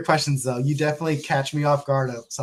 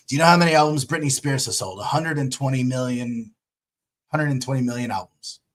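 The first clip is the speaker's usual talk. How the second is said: put-on English accent. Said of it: "I'll butcher it, but I'll try it".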